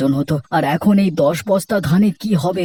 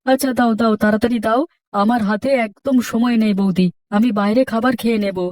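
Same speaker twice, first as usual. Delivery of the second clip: higher, lighter voice for the hurried friend; young shopkeeper late for his shop; young friend in a hurry; 4 semitones higher than usual. Acted. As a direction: rush him out the door, a bit higher. Raju in a hurry.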